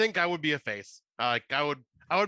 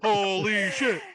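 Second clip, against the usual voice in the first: excited exclamation; 4 semitones higher, 5 dB louder than usual. Real, not acted. Stunned reaction to the entrance.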